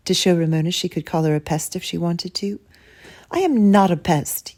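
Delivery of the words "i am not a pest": mild yell. Acted. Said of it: "yelled Ramona".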